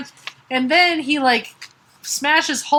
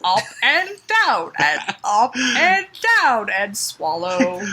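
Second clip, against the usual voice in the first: mock instructions; slower than usual.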